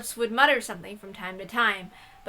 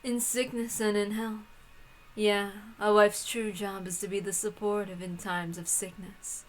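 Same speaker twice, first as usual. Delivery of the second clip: a hint of a sneering witch; lightly voiced cruel witch; 6 dB quieter than usual. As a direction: taunt the bride sweetly. Voicing the witch Bernkastel.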